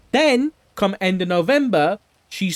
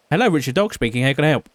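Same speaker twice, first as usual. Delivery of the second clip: phone greeting; 5 semitones lower, much faster than usual. Acted. Answering phone in character.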